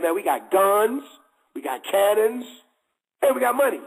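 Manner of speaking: mock bragging, stretched and emphatic; boastful. Imitated lieutenant boasts to the Mahdi about weapons, boastful. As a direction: brag it up as the imitated officer.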